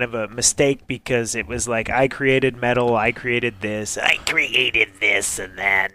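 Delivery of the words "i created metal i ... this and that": slow, slightly nasal impression; impression of a musician. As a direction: drag it out with a little nasal tone. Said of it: "he talks a little nasally".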